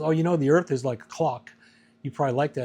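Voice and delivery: a hint of the girlfriend's voice; quoting her. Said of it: "So then she goes".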